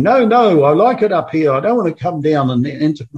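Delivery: mock-reluctant, begging to stay put up there; playful imitation of a man who won't come back; Lazarus protesting. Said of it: "can you imagine Lazarus saying".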